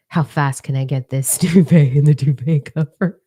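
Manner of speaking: loud, hammed-up urgency with a laugh; excited race challenge. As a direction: play it like a frantic race contestant. Acting out her Amazing Race challenge.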